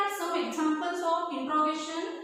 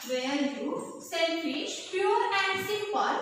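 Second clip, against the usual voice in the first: slow dictation; slower than usual. Real, not acted. Teacher dictating a line while writing.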